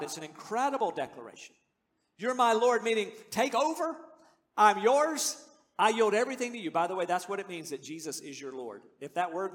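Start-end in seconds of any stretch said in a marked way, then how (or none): 2.2-6.7 fervent surrender. Acted. Voicing Thomas surrendering to Jesus.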